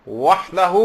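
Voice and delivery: وحدہ with a clear breathy ha sound; correct recitation. Shown as a demonstration. Teacher demonstrates the right ha in وحدہ. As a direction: say وحدہ pushing out the ha. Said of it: "صحیح آپ کو ہا کی آواز نکالنی ہے".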